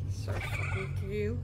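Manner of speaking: said through a yawn, slow. Real, not acted. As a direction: yawn while talking. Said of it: "I yawned".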